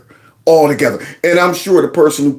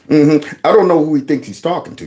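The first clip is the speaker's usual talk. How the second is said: usual speaking voice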